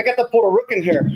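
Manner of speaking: slightly winded, just ran in; out of breath. Real, not acted. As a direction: talk a bit breathless. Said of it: "You're a little out of breath".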